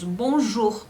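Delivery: bonjour, ou sound like Portuguese u; French bonjour. Shown as a demonstration. Teacher demonstrating bonjour to students. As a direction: model bonjour slowly for the class. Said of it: "mas aí faz esse som de bonjour".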